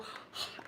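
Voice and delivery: sharp, proud intake of breath; demonstrated gasp. Shown as a demonstration. Showing what we do when we're proud, gasping. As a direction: show the family's gasp of pride. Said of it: "we go".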